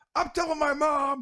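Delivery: shrill, booming, very high, loud drawn-out yell. Retelling a fleeing dragon's last line to the players: imitating a dragon yelling. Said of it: "have it yell".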